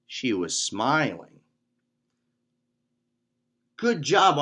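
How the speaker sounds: put-on measured, expressive read-aloud for kids; children's story narration. A narrator's reading. Instructor reads a Taekwondo tale to kids, storytime narration.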